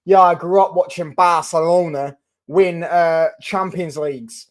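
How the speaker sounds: slow, lightly put-on Manchester accent; a badly faked Manc lad, dragged out slowly; terrible Manc accent. Rashford imagined at a press conference, in a bad Manc accent. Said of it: "That's a terrible Manc accent".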